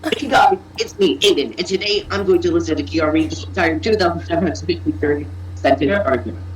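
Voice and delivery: lightly put-on YouTuber intro. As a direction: greet the viewers like a YouTuber. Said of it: "get in your YouTuber voice right now".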